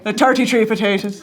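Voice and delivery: hammed-up Irish accent, amused. Shown as a demonstration. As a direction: do a joke Irish brogue. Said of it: "Can you do an, an Irish accent?".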